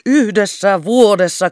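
"Yhdessä vuodessa" loud, high and slow, rapturous; rapturous exclamation. A narrator's reading. Captain pacing the room in rapture, "Yhdessä vuodessa" exclaimed. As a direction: proclaim "Yhdessä vuodessa" in ecstasy. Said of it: "haltioituneessa raivonnassa".

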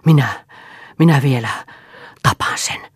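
loud hoarse rasp of rage; a raspy threat, loud at the start then falling to a breath. Acted. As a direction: rasp it out, choking on fury. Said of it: "kähisi hän".

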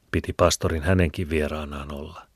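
ordinary delivery, nothing marked

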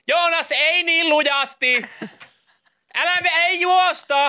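high, slow parent's call; huutelee lapsille. Acted. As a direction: scold imaginary kids across the pool. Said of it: "jos sä huutelet". (esitetty vanhemman kimeä huuto)

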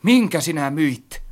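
high, slow, wary question; foreboding. A narrator's reading. Narrator asks friend what was sold, with foreboding. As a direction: ask it dreading the answer. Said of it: "Kysyin pahaa aavistellen".

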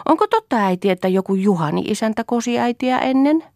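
high, wide-eyed mock innocence; feigned innocence. A narrator's reading. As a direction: play the innocent to tease. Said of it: "tekeytyi hyvin viattoman näköiseksi". (tytär kysyy äidiltä teeskennellyn viattomasti)

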